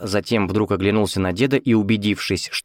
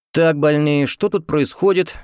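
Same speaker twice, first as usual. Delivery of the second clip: stern nurse; 7 semitones higher than usual. A narrator's reading. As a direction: cut in like a strict ward nurse. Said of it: "суровый женский голос". (строгая медсестра)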